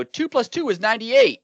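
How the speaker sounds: high, smug troll voice; mock dumb troll. Mocking an online troll, high smug voice. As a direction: play the smug troll announcing nonsense. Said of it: "if I come out and go".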